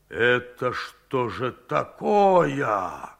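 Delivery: slow, menacing and low; ominous question. Acted. Foreman menacingly questions the cook about the meat, slow and ominous. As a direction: let the threat creep in, slowly. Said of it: "зловеще спросил он".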